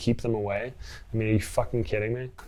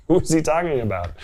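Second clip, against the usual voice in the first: higher and louder, laughing through it; laughing disbelief; 6 semitones higher, 6 dB louder than usual. Real, not acted. Laughs, then repeats the question.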